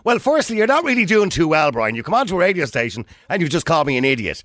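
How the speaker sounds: heated pundit debate. Real, not acted. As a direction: push back hard, voice up. Radio host arguing with caller.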